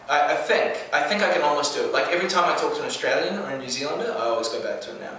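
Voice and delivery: New Zealand accent. Shown as a demonstration. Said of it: "if I was to go back to my New Zealand accent".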